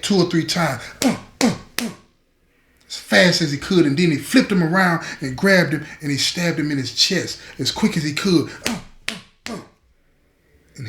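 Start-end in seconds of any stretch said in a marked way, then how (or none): 1.0-1.9 short, higher-pitched "uh" bursts; imitated stabbing grunts. Storyteller acting out knife thrusts to the neck, jabbing grunts. 8.7-9.6 quieter, higher short "uh" puffs; imitated stabbing grunts. Storyteller acting out stabs to the chest, soft jabbing grunts.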